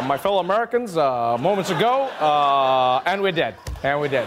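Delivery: halting Obama voice with long uhs; lightly imitating Obama's slow, measured pauses; slow Obama impression. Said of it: "the messages are in his accent".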